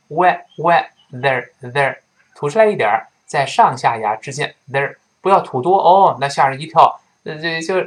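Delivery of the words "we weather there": "weather" broken into WE and THER; "weather" with a voiced TH, syllables separated; tongue-tip TH. Shown as a demonstration. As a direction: sound out "weather" in pieces, tongue between teeth. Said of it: "舌尖吐出来一点儿".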